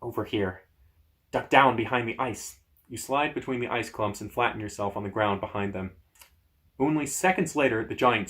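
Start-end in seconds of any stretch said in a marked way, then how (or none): 0.0-2.6 crackly voice. Acted. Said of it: "One of the voices crackles again".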